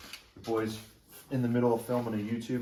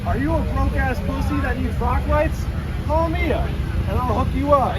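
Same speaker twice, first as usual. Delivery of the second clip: mocking high voice; 13 semitones higher, 5 dB louder than usual. Same taunting voice continues.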